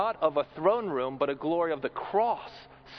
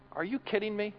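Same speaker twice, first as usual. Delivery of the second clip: a hint of exasperated disbelief, softer; 3 semitones higher, 5 dB quieter than usual. Pastor imitating his own exasperated reply, mock disbelief. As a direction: play an exasperated teacher, lightly. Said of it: "this is how I would respond".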